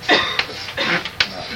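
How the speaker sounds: "Not" lifted high and light; stressed gloss. Shown as a demonstration. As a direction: give the meaning "Not" with a clear lift. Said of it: "means not".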